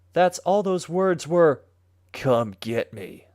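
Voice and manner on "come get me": low, hushed, evil demonic voice. Telling a story where his voice turns weird as he says three words, demonic evil voice. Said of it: "It was demonic and evil".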